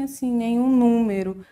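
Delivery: usual speaking voice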